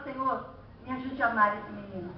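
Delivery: soft, low, subdued plea; pleading prayer. Acted. Parent begging God for help loving the child, hushed low plea. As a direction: pray it quietly, almost to yourself. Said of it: "Chora, rola, baba e fala".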